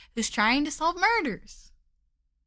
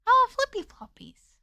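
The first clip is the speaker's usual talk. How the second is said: excited; 10 semitones higher, 3 dB louder than usual. Acted. Showing off sandals.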